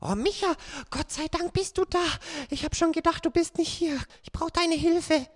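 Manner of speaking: ängstliches kleines Mädchen; Rotkäppchen voice. Acted. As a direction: spiel ein aufgeregtes Mädchen. Sprecherin spielt Rotkäppchen. (verängstigtes Rotkäppchen)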